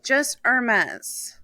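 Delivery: Hermes slowly, silent H, ending mez; simple er-MEZ. Shown as a demonstration. Correcting the co-host's showy version, Hermes as a slow, simple er-MEZ. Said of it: "I don't know why you have to say it like that".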